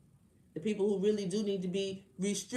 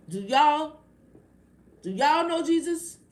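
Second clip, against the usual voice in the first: loud, high challenge to the viewers; challenging shout; 8 semitones higher, 9 dB louder than usual. Real, not acted. Scolding her live viewers about knowing Jesus, raised and high. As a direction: call them out, pitch up and push.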